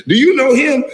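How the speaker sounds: high-pitched mock fan asking; imitated questioner, laugh breaking in; mimicked nosy questioner. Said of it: "You know how many times I hear that".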